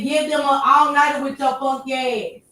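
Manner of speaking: high, mocking read of chat; mocking quote. Reading chat's jab at Shane in a high mocking voice. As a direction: voice the viewer's jab playfully. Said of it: "they said".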